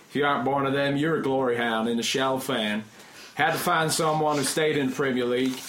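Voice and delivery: mock Texan email reading; terrible Southern accent. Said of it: "my terrible, terrible Southern accent".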